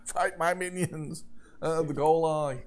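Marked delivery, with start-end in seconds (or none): 0.1-1.2 tag. Acted. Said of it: "The monster screams back".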